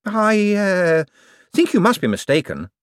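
high, eager, bright-voiced wizard; a jumpy official covering for himself; fussy wizard Hicks. A narrator's reading. Hicks answering Moist's question, high and eager.

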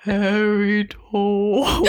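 very slow drawn-out spooky call; first try at a monster; hollow monster voice. Acted. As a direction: stretch it out like a ghostly moan. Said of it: "it needs to be deeper".

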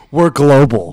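laughing. Real, not acted. Laughing, excited about podcast reach.

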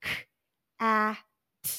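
K, ah, t said as separate sounds; segmenting cat. Shown as a demonstration. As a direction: tap out each sound of cat apart. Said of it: "They tap the sounds".

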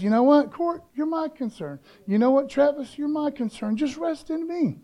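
acted tender reassurance. God to worried believers by name, tender reassurance. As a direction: gently reassure them one by one. God comforting named church members.

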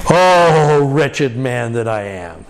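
slow, aching cry of despair; a groaning "Oh", then a low, slow lament; anguished lament. Shown as a demonstration. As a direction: cry it out like a broken soul. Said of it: "what is his great lament".

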